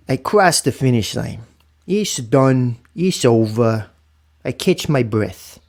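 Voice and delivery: slow, solemn poem reading. Shown as a demonstration. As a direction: read it slow and heartfelt, like a poem. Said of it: "I'm gonna read it just like my grandfather would probably wanna read it".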